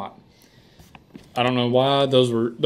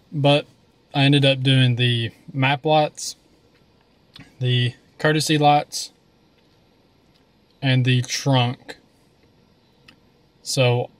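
slow words around a candy; talking with candy in mouth; mouth full; slower than usual. Real, not acted. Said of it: "I got another warhead".

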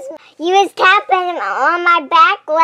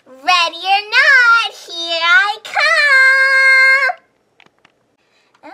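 calling out; 6 semitones higher, 4 dB louder than usual. Real, not acted. Seeker calling out in hide and seek.

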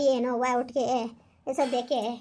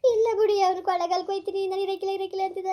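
crying; 5 semitones higher than usual. Acted. Wife sobbing to husband that son left for Kollegala. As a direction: cry out that he has gone.

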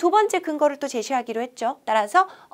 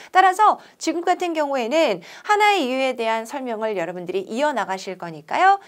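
ordinary talk

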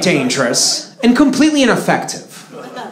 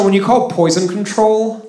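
usual speaking voice

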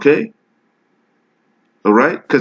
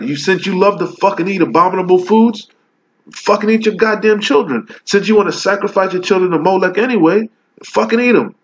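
heated preaching rant; 4 semitones higher than usual. Real, not acted. Street preacher scolding his listeners, voice climbing in anger. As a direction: pitch climbing, scornful and fired up.

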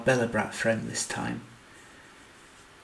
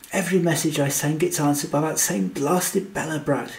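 louder exasperated exclamation; exclaiming; 3 semitones higher, 5 dB louder than usual. Acted. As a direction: blurt it out, louder and fed up. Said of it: "he exclaimed".

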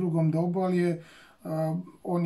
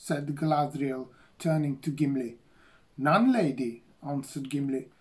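story narration. A narrator's reading. Reads Tolkien passage aloud in English.

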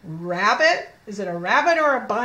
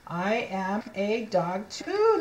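slow model reading; slower than usual. Shown as a demonstration.

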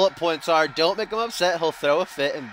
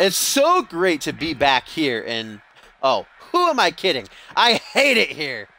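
wrestler promo voice. Acted. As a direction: sneer through the promo like a spoiled star heel.

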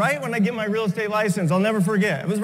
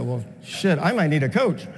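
dry low realization; 6 semitones lower than usual. Retold or imitated. Realizes he needs help.

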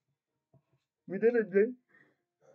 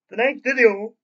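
excited; 4 semitones higher, 11 dB louder than usual. Real, not acted. Hyping next video to fans.

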